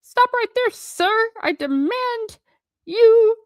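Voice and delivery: very high, loud British protest; shrieked demand in a British accent; blustering British uncle. A narrator's reading. Uncle Vernon finding his voice, blustering in British. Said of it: "Uncle Vernon suddenly found his voice".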